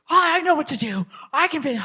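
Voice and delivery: mock defensive teenager; imitated teen back talk.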